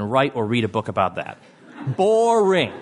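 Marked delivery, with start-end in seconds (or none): 2.0-2.7 scornful. Real, not acted. Scorning a budget book.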